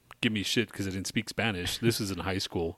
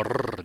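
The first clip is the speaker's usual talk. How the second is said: rolled rr trill. Shown as a demonstration. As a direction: trill the tongue on a long rrr. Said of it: "You don't have to go".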